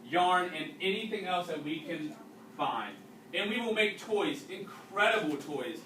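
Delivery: reading a story aloud to a class; unhurried read-aloud narration for students. A narrator's reading. Teacher reading a wartime novel to the class, steady narration.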